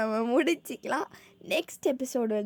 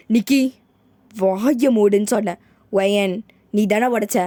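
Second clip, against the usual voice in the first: loud furious mother; mother shouting shut up; angry shout; 12 dB louder than usual. Acted. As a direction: bark them into silence. Mother silences son, accuses daughter.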